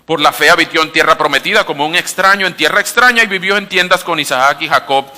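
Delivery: loud, continuous Bible reading with lifted key phrases; quick scripture reading. Real, not acted. Preacher reads Hebrews to congregation following along, brisk and loud. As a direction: read the passage aloud briskly, loud and driving. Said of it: "Lo voy a leer un poco rápido".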